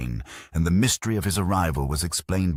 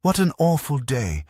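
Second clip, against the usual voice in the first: high, loud groan of dismay; a groaning cry of dismay; 10 semitones higher, 4 dB louder than usual. A narrator's reading. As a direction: wail it like a bad-luck sigh. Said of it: "groaned Molly".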